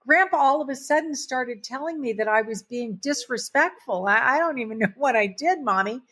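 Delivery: put-on high, tearful five-year-old voice, lightly done; mother imitating her upset daughter; little girl voice. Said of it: "She said".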